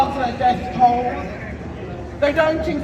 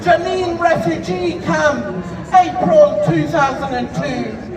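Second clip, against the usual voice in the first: in front of an audience. Acted. Declaims list of massacres over music.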